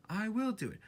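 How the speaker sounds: high and determined; determined little engine. A narrator's reading. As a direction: push it out high and firm. Edward's chant.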